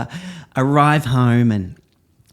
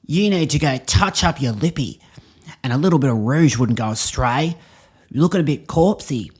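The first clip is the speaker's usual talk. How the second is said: hammed-up bogan bloke; 2 semitones higher than usual. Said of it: "you comment".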